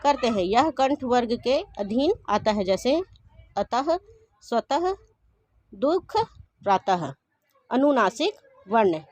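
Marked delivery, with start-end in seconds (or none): 3.6-7.1 अतः and स्वतः ending in a breathy ह sound; visarga demo. Shown as a demonstration. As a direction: finish अतः, स्वतः, दुख, प्रातः with a clear ह. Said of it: "उसको हम ह की तरह उच्चारण करते हैं". (विसर्ग को ह की तरह बोलना)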